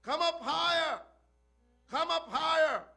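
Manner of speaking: high, loud preached shout calling upward; booming call from the heavens. Acted. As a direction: cry it out from the throne, high and loud. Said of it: "he shouted and said with a loud voice".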